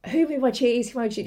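mildly moaning, repeated complaint; a touch of whiny fixation; moaning mouse. Acted. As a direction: lightly act out a mouse going on and on. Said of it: "the other one is just moaning about".

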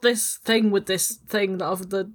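slow, tentative Northern English voice; Northern English accent. Acted. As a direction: feel out a Northern accent slowly. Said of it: "northern, northern, northern".

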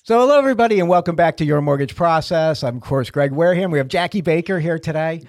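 radio show opener; show host intro. Acted. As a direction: welcome the listeners back like a host. Radio host opens segment.

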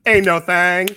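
exaggerated Californian movie-teen accent; mock California accent. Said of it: "sounds like he's from California".

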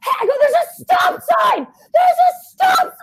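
yelled high and very loud; screaming at a driver. Retold or imitated. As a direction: scream at the car that ran the stop sign. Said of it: "like, I was screaming".

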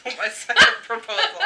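laughing. Real, not acted. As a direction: laugh while repeating the title. Repeats title, laughing.

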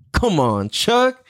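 usual speaking voice

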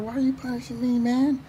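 high, pleading, wounded protest; indignant tiger. Retold or imitated. The tiger protests to the lion, high and hurt. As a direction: squeal the unfair sentence. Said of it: "So the tiger's like".

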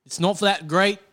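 struggling attempt at an Australian accent. Co-host struggling to show off the accent, shaky Australian accent. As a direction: do a rough Aussie accent you can barely manage. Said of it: "Which is a cooler accent anyway".

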